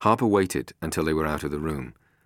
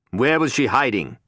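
louder, higher demand; villain interrogates his captive; menacing interrogator; 9 semitones higher, 8 dB louder than usual. A narrator's reading. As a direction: bear down on the prisoner. Harper interrogates Venture.

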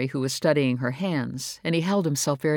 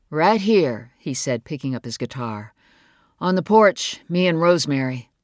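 louder reply called across; calling back; 5 dB louder than usual. Acted. Son calling back to his mother from the porch. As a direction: answer from the porch, projecting.

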